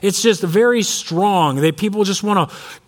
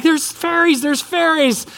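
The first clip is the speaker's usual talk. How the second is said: put-on high, thrilled child's voice; much higher excited child imitation; excited little girl; 8 semitones higher, slower than usual. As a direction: squeal it like a wide-eyed kid. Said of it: "she'd get so excited".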